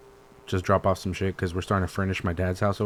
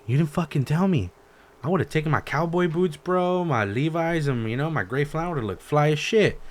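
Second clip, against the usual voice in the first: mock complaint; 6 semitones higher than usual. Retold complaint to dad.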